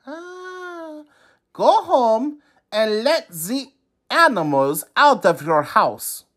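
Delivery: breathy ah then shifted sage voice; wise man. A narrator's reading. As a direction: say it knowingly like a sage. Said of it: "the wise man said".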